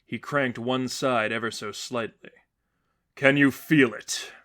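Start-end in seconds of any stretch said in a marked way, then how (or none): 3.2-4.3 slow, deliberate question; measured voice of the seraphim; slow probing seraphim. A narrator's reading. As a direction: test him slowly. Seraphim cranks the device.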